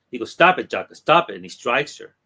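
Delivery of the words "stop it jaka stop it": loud, higher, angry yell; angry shout. Retold or imitated. He shouts at Jaka before striking her, angry.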